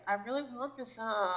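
mock whine trailing into "uh"; whiny drawn-out ending. Mocking how younger people end words, whiny. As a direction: tack an "uh" onto the last word. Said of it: "end that with some kind of, uh".

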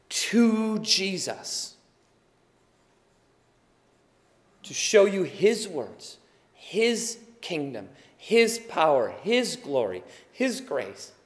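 real emotion welling up as he lists them; getting emotional. Real, not acted. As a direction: voice catching, slowing down. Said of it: "I'm sorry, I'm getting emotional".

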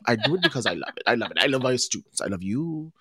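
a hint of the professor's Italian accent, fond. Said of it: "she spoke with a deep Italian accent".

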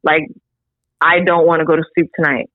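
understated and serious; dead serious. Retold or imitated. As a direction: imitate a sister being gravely earnest. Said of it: "she was dead serious".

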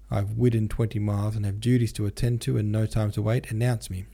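"widden" for ridden, r becoming w; r's as w's. A narrator's reading. Denisov demanding to be announced, r's as w's. Voiced Denisov with speech impediment.

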